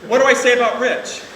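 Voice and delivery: loud, earnest toast to the groom; loud heartfelt. Real, not acted. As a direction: declare it to the room. Addressing son-in-law at wedding.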